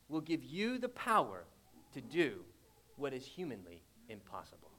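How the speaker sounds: starts soft and fades almost to a whisper; a dramatic preacher's fade; fading to a hush. Acted. Preacher dropping voice for effect.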